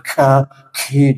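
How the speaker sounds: "ka, ki" with overblown breath; exaggerated kaf. Shown as a demonstration. Teacher warning against overdoing it, kaf heavily aspirated. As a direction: push far too much air through each k. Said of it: "jangan berlebihan".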